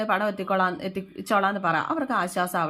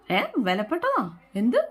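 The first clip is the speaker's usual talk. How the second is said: taken aback; 3 semitones higher than usual. Retold or imitated. Husband caught off guard by wife's question, taken aback. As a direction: ask it in pitched-up disbelief.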